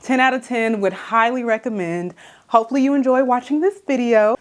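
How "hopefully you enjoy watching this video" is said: out of breath. Real, not acted. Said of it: "Why am I out of breath".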